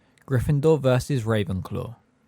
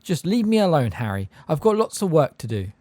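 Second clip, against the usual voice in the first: angry; 6 semitones higher, 4 dB louder than usual. A narrator's reading. Hermione losing her temper.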